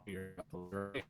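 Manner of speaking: glitchy robot voice; robotic, broken-up call audio. Real, not acted. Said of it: "You sound like a robot".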